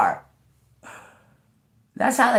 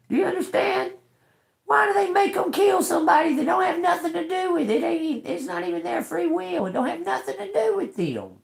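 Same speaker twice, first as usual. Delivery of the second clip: heated rant; 11 semitones higher than usual. Real, not acted. Outraged rant.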